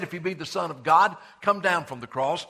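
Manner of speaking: loud jeering dare; mocking taunt. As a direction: throw the dare up at the cross. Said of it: "mocked him and said".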